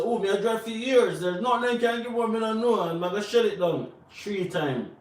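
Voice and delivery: high, animated boastful driver; mock overconfidence. Man boasting about years of driving, mock overconfidence. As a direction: imitate a cocksure driver, pitch jumping up. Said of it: "Like, man said".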